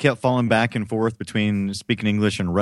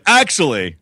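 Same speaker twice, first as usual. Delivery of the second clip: mild mock yell of indignation; retold yell; 4 dB louder, slower than usual. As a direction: yell it at the screen, half-strength. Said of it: "Randy yelled at the screen and said".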